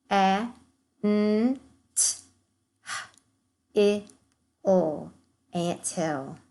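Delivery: N, I, N, T, E, N said as separate sounds; segmenting sounds. Shown as a demonstration. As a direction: sound out nineteen piece by piece. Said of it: "segment the rest of our words".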